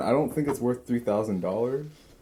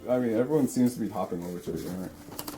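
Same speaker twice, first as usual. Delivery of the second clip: talking with a mouth full. Real, not acted. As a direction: say it around a bite of food. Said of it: "Should we be talking with our mouth full".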